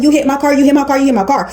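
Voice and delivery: high, rapid-fire mock accusation; retold yelling. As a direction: imitate a driver yelling over and over. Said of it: "So he's yelling".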